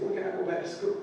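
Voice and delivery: put-on a sick girl begging to return; eager plea. Daughter asking the doctor when she can go back to school, eager high plea.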